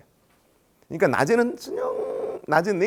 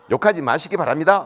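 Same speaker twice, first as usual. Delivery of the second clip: slightly mock formal objection, louder; firm protest; 2 semitones higher, 5 dB louder than usual. Official asking cursing parent to stop, firm protest. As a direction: object stiffly and loudly.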